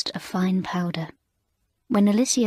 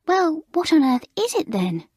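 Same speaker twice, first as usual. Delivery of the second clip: puzzled; 8 semitones higher than usual. A narrator's reading.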